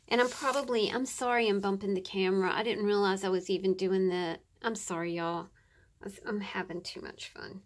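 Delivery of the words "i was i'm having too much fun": soft whisper to yourself. Real, not acted. Crafter confessing to viewers in a soft whisper. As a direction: breathe it out unvoiced.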